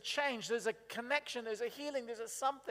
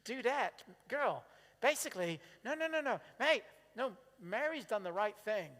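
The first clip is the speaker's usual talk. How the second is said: gentle correction. Retold or imitated. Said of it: "Jesus goes".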